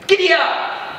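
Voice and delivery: a cowboy spurring his mount; mock cowboy. Rider jumps on a dog, mock cowboy yell, high. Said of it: "said, like".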